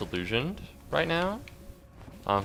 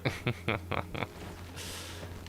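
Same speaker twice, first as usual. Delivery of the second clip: quiet, laugh-like mock sobbing; hushed, voiceless sobbing chuckle; imitated crying; 12 dB quieter than usual. Shown as a demonstration. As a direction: fake a soft cry that could pass for laughter. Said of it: "that kinda sounds like".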